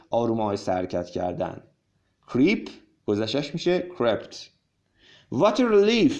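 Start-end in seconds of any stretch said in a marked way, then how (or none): 5.3-6.1 higher-pitched, lightly exclaimed story line; mild cry of relief. A narrator's reading. Teacher reads Anna's line to learners, mild relieved cry. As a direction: read it as a small exclamation. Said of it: "Anna cried".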